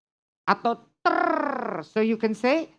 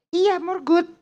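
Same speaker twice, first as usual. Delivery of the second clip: high, eager student reply; insistent student; 8 semitones higher, 4 dB louder than usual. Acted. Student answers a listener's correction, insistent. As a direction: insist on it brightly, pitch jumping up.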